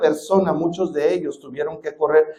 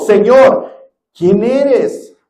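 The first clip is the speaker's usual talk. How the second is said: trembling Saul; 3 semitones higher, 4 dB louder, much slower than usual. Acted. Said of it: "temblando y temeroso, dijo".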